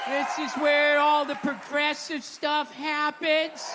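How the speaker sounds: timid pushback. Retold or imitated. Husband barking back slowly at his wife's party. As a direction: drag it out like a hesitant guest. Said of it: "you got a little something like".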